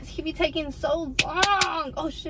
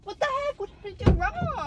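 baffled; 5 semitones higher than usual. Acted. Confused after he leaves.

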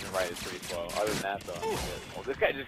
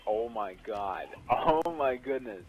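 laughing disbelief; much slower than usual. Real, not acted. Amazed at headshot streak.

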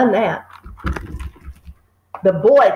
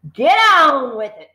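louder, raised order; shouting; 5 semitones higher, 6 dB louder than usual. A narrator's reading. Trunchbull shouting at the boy to go on, loud. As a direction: snap it at the boy. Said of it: "she shouted".

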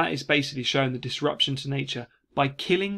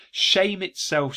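scolding; 5 semitones higher, 3 dB louder, much slower than usual. Retold or imitated. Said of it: "she says".

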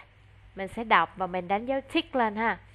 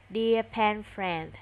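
slow model reading; slower than usual. Shown as a demonstration.

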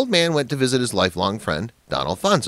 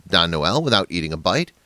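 plain reading voice

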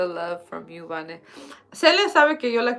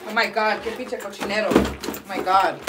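imitating angry sister; 3 semitones lower than usual. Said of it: "luego, luego cuando está enojada, ella está en la casa así".

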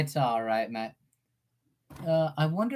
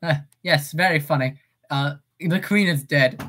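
funny British accent; 2 semitones lower, 3 dB louder than usual. Shown as a demonstration. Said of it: "try to do a funny British accent".

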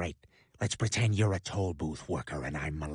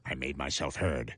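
deep voice. Acted. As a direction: growl it low like a cowboy. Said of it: "won a deep voice contest".

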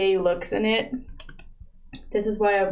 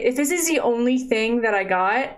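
normal talking voice

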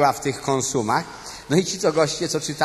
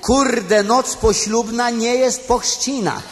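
higher, louder and slower, pleading with Zenek; hammed-up scolding of a grown baby; exasperated mock shout; 7 semitones higher, 3 dB louder, slower than usual. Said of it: "wszyscy godzinę tłumaczyli". (udawany, przeciągły krzyk do Zenka)

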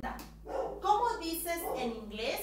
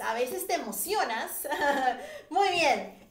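laughing; 4 dB louder than usual. Real, not acted. Laughing at eager students.

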